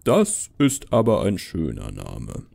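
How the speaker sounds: slow, low Santa voice; Santa Claus. Acted. Santa praising Felix's name, slow and jolly. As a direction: draw it out like Father Christmas, sinking low.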